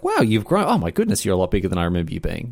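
mock gushing relative; gushing adult. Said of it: "'cause it's very interesting for you".

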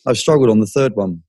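breathless, talking between breaths; catching breath while talking. Real, not acted. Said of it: "sorry, I'm out of breath".

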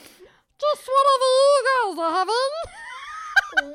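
very high, slow squeaky helium voice. Retold or imitated. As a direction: sound like you sucked a balloon. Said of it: "in this high-pitched helium voice".

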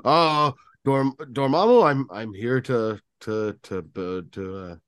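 stumbling, fading line; hesitant fumbling actor; mock flubbed take. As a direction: lose the word mid-line. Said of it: "he was probably like".

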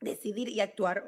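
choking on a drink mid-sentence; words squeezed out while choking. Real, not acted. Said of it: "Oh my God, me ahogué".

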